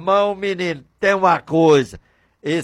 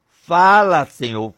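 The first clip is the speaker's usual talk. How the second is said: ordinary talk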